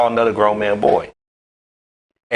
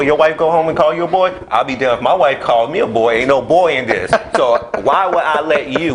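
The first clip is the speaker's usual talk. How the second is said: heated indignation; 6 semitones higher than usual. Real, not acted. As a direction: get fired up defending your manhood. Heated rant on being called boy.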